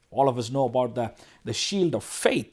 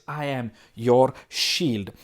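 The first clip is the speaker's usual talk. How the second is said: slow, weighted "I am your shield"; emphatic; 3 semitones lower, much slower than usual. Real, not acted. Preacher voicing God's promise to Abraham, emphatic. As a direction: spell out each word deliberately up to "shield". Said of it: "I want to emphasize on that word".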